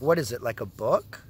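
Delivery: mock-innocent question with a rising end; sarcastic. Patient questioning staff about the two-hour reading, sarcastic. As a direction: needle them with a sarcastic question. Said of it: "Obviously, I was being sarcastic".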